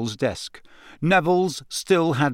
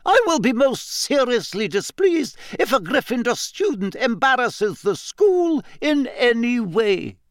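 stern warning; 9 semitones higher than usual. A narrator's reading. McGonagall warning students about behaviour, stern. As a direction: lay down the law. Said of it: "McGonagall warns the class".

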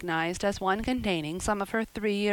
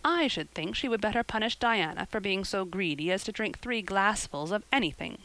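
short. Acted. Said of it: "said Marilla shortly".

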